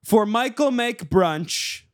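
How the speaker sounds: high, loud, slow proclamation; slam poetry reading. Acted. Poet performing a birthday poem, loud proclaimed verse. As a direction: proclaim it slowly at high pitch. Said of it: "Do you want me to do a reading".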